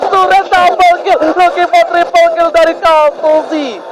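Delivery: slow drawn-out kill call; fighting game announcer. Real, not acted. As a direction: announce the kill like an arena caster. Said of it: "caster calls multi-kill".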